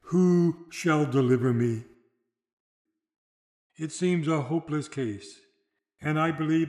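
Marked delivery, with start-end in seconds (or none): 0.0-1.8 louder, slow cry for help. Retold or imitated. The fainting soldier cries out for deliverance, louder and slow. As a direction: plead aloud for rescue. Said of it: "the poor fainting soldier cries out again".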